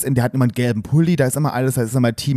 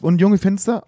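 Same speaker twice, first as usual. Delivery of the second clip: higher, cheerful dad voice asking proudly; a father proudly asking his son's opinion, voiced higher; imitating dad; 7 semitones higher than usual. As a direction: play the proud father showing off the kitchen. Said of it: "und Vater sagt".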